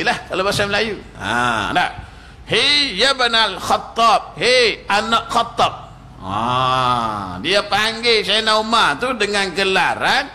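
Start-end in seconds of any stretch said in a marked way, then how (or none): 2.5-5.7 brusque, high, slow rude address; a hint of a rude Bedouin shouting at the caliph; rude call. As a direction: call him out rudely. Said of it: "dengan gelaran yang agak kasar".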